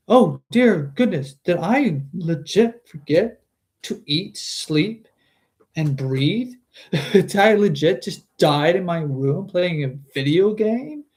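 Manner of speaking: realising he forgot to live; shocked disbelief. Retold or imitated. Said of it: "his final moments were like".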